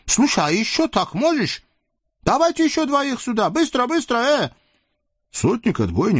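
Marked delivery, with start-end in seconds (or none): 0.0-4.5 lecherous sultan. Acted. Sultan leers at the captive women, high and gloating. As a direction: purr over the captives like a greedy sultan. Sultan demands more fighters.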